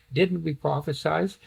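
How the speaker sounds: mildly pleading question, rising at the end; a touch of appeal. Acted. Followers questioning the Lord, mildly pleading. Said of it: "Now that's a pleading".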